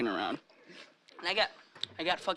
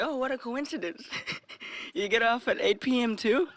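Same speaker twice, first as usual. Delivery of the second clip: mock smooth; 8 semitones higher than usual. Retelling his own pickup line.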